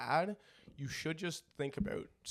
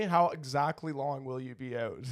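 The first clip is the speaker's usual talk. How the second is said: loud call to mom; 3 semitones higher, 8 dB louder than usual. Retold or imitated. Voicing himself calling to mom.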